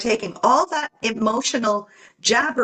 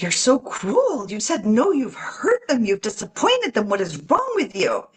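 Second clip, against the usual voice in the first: 1 inner critic; 2 semitones higher than usual. Pretend. Voicing her harsh inner critic.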